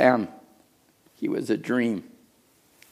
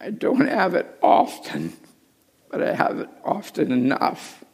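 hushed aside; 4 semitones higher than usual. Real, not acted. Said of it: "hushed aside".

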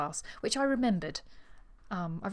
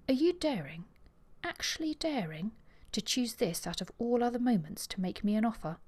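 higher, indignant mock outrage; 4 semitones higher than usual. Miss Thane affronted at Tristram's untimely proposal, mock outrage. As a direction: play up her affront. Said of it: "an expression of outrage".

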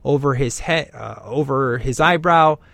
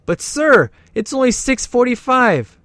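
put-on much higher, pleading boy voice; nervous date boy; 10 semitones higher, 5 dB louder than usual. The daughter's date pleading with the dad, high nervous voice. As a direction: squeak it out like a scared teen.

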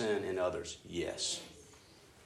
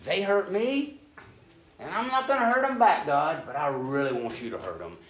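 aggrieved plea; 5 semitones higher, 5 dB louder than usual. Retold or imitated.

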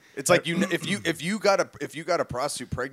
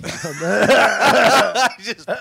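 cracking up mid-sentence; words broken by real laughter; laughing; 7 semitones higher, 10 dB louder, slower than usual. Real, not acted. Laughing at her own joke.

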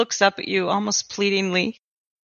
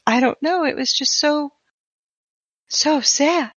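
tearful; 2 semitones higher than usual. Acted. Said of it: "he just starts breaking down".

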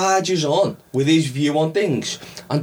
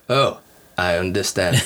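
Cohn's smooth reply; 10 semitones lower than usual. Retold or imitated. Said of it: "Cohn's like".

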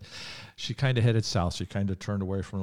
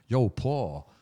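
put-on light New York accent as God; a casual New York "Yo"; 4 semitones higher, 4 dB louder than usual. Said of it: "I'm gonna do the New York accent here".

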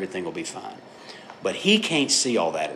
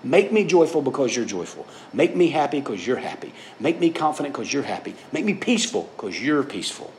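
pleading prayer; 5 semitones higher than usual. Pretend. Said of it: "and then saying".

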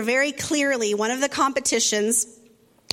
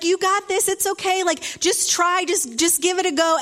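higher, upbeat coaxing; encouraging partner; 6 semitones higher than usual. Retold or imitated. Partner reassuring the girl, in higher upbeat tone. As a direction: cheer her on lightly. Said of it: "And he's like".

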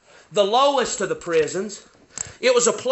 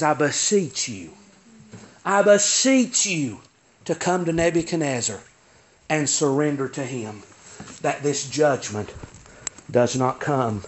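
low, hushed entreaty with pauses; lightly acted prophet's plea; earnest pleading; 3 semitones lower than usual. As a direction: beseech gravely, one phrase at a time. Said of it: "But he's pleading".

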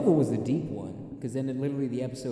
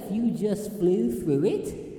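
high, slow tempting voice; sly conscience voice; 8 semitones higher, 4 dB louder, much slower than usual. Acted. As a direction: coax him like a devil on the shoulder. Imitating the cartoon conscience.

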